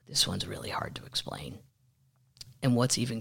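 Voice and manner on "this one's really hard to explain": soft spooky whisper. Real, not acted. Introducing the creepy McAfee documentary, whispered. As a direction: hush it like a secret.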